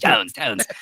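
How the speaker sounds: light impression of a wacky old professor; imitating wacky old man. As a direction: do the odd old guy from the movie, lightly. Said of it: "it's the distinct voice".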